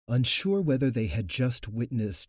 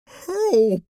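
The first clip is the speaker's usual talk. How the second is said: much higher, loud gurgling cry; gurgled cry for help; 12 dB louder than usual. Acted. Swelling woman crying to the crowd, gurgling cry for help. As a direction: call out drowning in her own swelling. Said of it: "she gurgled".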